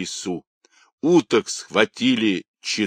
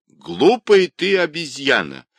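high, loud insult; old woman shouting; 7 semitones higher, 5 dB louder than usual. Acted. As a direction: hurl the insult angrily, pitch raised. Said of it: "продолжала кричать старуха".

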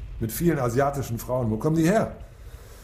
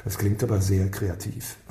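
sarcastic; 4 semitones lower than usual. Acted. Sarcastic reply to subordinate.

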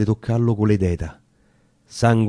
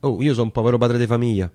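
frightened pleading; 3 dB louder, faster than usual. Acted. Vineyard keeper begging the armed patriots, frightened and rushed. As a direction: beg for your life, words tumbling out.

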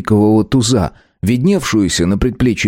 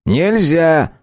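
curt refusal; 8 semitones higher than usual. A narrator's reading. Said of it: "отрезал Филипп Петрович".

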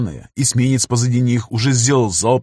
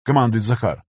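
usual speaking voice

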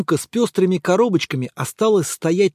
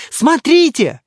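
high, loud alarmed cry; girl's shout; 8 semitones higher, 6 dB louder, slower than usual. Acted. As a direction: shout to make everyone look. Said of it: "вдруг закричала одна из девочек". (громкий испуганный крик девочки)

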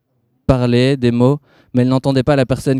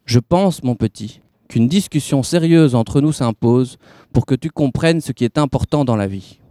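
a touch of forced sweetness, slow; smooth it over with a forced smile; suave voice. Acted. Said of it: "dit d'une voix suave".

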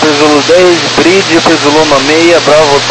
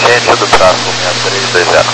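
crackly military radio; 8 semitones lower than usual. Real, not acted. Air traffic radio exchange.

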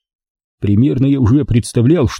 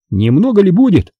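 higher, louder bewildered Andrey; bewildered question; 8 semitones higher, 3 dB louder than usual. Acted. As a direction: ask it confused and taken aback. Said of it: "Растерянно спросил Андрей".

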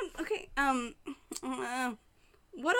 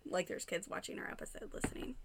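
whisper; 7 semitones lower, 12 dB quieter than usual. Real, not acted. Aside about kids watching.

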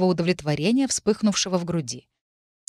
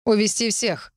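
отчётливая команда; прикажи твёрдо, без крика; чёткий властный голос; 3 semitones higher than usual. A narrator's reading. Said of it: "раздался чёткий властный голос". (властное распоряжение командира)

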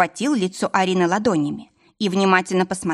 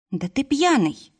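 high, slow drawn-out astonishment; surprised; 7 semitones higher than usual. A narrator's reading. Arina realising her husband is drunk, surprised. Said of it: "удивилась Арина".

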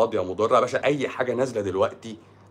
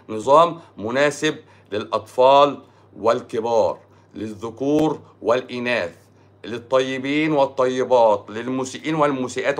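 slow, measured list in formal Arabic; stretched-out announcer-like listing; formal proclamation. Real, not acted. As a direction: proclaim each pairing slowly and deliberately.

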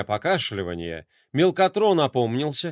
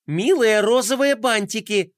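firm insistence; 7 semitones higher, 3 dB louder than usual. Acted. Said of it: "тоном, не терпящим возражений".

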